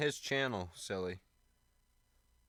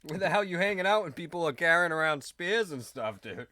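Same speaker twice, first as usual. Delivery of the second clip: laughing disbelief; 6 semitones higher, 6 dB louder than usual. Real, not acted. Reacting to spear-stabbing story.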